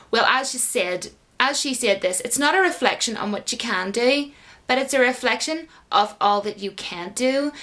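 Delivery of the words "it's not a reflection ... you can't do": badly faked American accent; half-hearted American accent; a poor mock American accent; terrible American accent. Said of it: "a really terrible accent".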